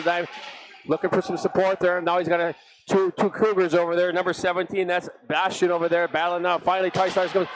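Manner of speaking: brisk running hockey commentary; play-by-play. Acted. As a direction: follow the puck line by line.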